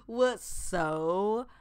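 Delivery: very slow, stretched for emphasis; slow, emphatic storytelling; drawn-out punchline. Real, not acted. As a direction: drag each word out to land the outrage.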